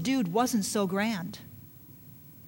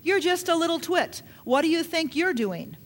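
higher, mocking put-down; condemning voice; 5 semitones higher than usual. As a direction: sneer down at the boy. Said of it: "spirit of condemnation coming against David".

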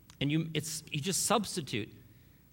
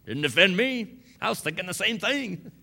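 voicing Mom; 7 semitones higher, 5 dB louder than usual. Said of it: "Mom says".

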